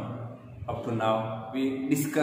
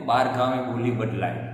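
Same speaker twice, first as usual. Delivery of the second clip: quoting a proverb; 2 semitones lower, much faster than usual. Retold or imitated. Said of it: "it was said that".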